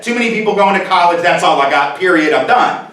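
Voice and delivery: each phrase pressed hard and final; blunt final quote. Retold or imitated. To the audience, the pundit's blunt final word, curt. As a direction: shut the topic down flat. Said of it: "He said".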